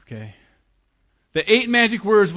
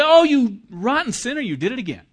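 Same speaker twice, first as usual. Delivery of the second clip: high, loud sneering scold; mock accusing voice; 9 semitones higher, 6 dB louder than usual. Preacher mimics a condemning God scolding the sinner, mock sneer. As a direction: jeer at the sinner in a hammed-up accusing voice. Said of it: "he doesn't say".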